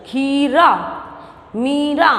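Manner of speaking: खीरा, मीरा with stretched first vowels; long ee. Shown as a demonstration. Teacher modelling pronunciation, खीरा, मीरा with long ee. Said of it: "इस तरह से आप शब्द का उच्चारण".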